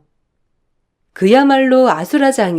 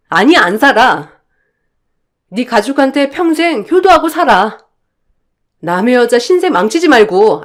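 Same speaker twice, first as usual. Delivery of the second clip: raised voice, firm and furious; angry confrontation; 2 semitones higher than usual. Acted. Wife telling husband she is leaving him, angry and raised. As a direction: tell the husband she's done with him.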